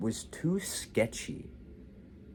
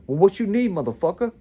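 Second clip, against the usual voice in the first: louder, higher retold challenge; mock angry demand; 9 semitones higher, 8 dB louder, faster than usual. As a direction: act out an irritated street dealer, raised voice. Retold dealer snaps after refusal.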